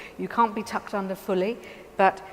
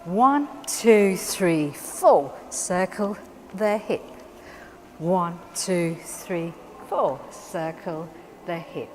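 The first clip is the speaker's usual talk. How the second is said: dance teacher cueing the count; slower than usual. Shown as a demonstration. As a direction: count four steps, slow on circle the hip. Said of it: "So we can say".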